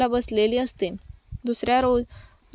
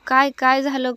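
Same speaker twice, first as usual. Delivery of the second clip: startled; 4 dB louder than usual. Acted. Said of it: "तसा तो भानावर येत".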